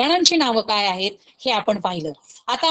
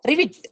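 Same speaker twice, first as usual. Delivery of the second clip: frog croak; 5 semitones higher than usual. Shown as a demonstration. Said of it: "फ्रॉगचा आवाज कसा असतो".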